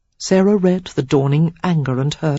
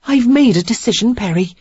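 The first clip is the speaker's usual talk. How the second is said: put-on higher young woman's voice, steady; lightly raised, collected reply; Sarah, composed; 6 semitones higher, 4 dB louder than usual. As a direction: brush it off calmly.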